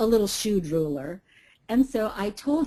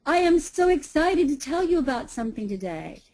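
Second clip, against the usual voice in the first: a bit higher, bright with energy; upbeat excited delivery; excited demo; 5 semitones higher than usual. Shown as a demonstration. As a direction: sell your excitement to the room. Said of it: "You can say".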